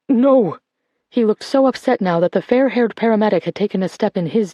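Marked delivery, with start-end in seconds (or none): 0.1-0.6 high, loud no; loud protest. Acted. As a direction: cry out in protest. Old man protests in distress.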